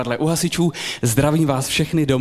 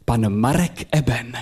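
announcer intro; 3 semitones lower than usual. Retold or imitated. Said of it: "se ozval hlas a řekl".

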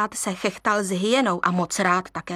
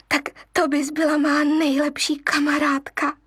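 higher, happy little lion; light up at the offer; a cub excited by a new friend; delighted cub; 6 semitones higher than usual. Acted.

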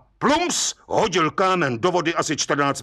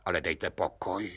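astonished judge; 8 semitones lower, 10 dB quieter than usual. Acted. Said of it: "užasl pan soudce".

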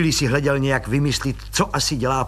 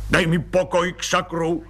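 irritable snap; 6 semitones higher than usual. Acted. Colonel snaps at wife.

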